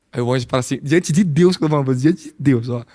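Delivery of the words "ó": ordinary delivery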